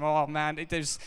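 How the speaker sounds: can't contain the thrill; excited. Real, not acted. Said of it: "It just blows my mind".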